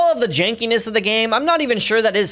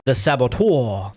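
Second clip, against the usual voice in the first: mock French accent; 8 semitones lower, slower than usual. Shown as a demonstration. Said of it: "I can't do a French accent".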